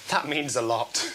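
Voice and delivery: quiet, slowed punchline with a laugh breaking in; deadpan punchline. Acted. Widow thanks the stranger, quiet deadpan punchline. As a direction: hold it quiet, then let the laugh slip.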